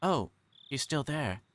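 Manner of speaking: put-on a little girl, mildly surprised; young girl Satoko. Satoko reacts on phone.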